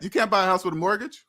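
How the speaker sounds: fast, rising mock disbelief; incredulous echo. To viewers, echoing the bank's claim in disbelief. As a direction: toss it back as if it's absurd. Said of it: "Who said that?".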